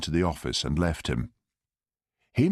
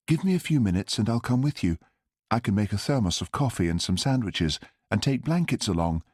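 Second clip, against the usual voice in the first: lightly raised female character; woman's voice; 4 semitones higher than usual. Acted. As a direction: voice the kind older woman. Harriet's voice in narration.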